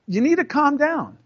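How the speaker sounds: high, firm telling him to calm down. Retold or imitated. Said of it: "and I'm like".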